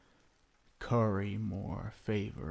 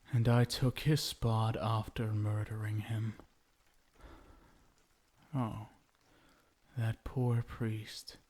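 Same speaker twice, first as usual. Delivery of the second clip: voiceless whispered confession. Acted. Vampire husband whispering to his bride how he killed her groom. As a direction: breathe the murder out like a secret.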